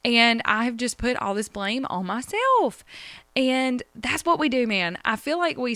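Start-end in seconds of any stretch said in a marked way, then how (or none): 0.0-2.8 mock distress.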